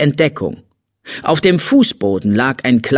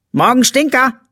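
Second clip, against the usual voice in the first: put-on high, gleeful little-girl greeting; cheerful call; 12 semitones higher, 4 dB louder than usual. A narrator's reading. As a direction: call out merrily to a sleepy brother. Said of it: "rief das kleine Mädchen fröhlich". (fröhlicher, heller Mädchenruf)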